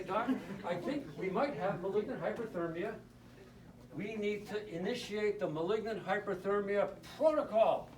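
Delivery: with authority. Retold or imitated. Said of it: "With authority".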